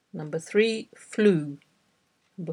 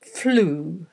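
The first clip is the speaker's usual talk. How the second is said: drawn-out word, carefully dictated; slow dictation; much slower than usual. Shown as a demonstration. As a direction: read it out slowly, pausing long between repeats. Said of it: "read ten words aloud slowly".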